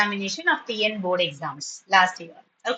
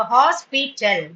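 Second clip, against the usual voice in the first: slow syllable demo; much slower than usual. Shown as a demonstration. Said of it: "Three syllables".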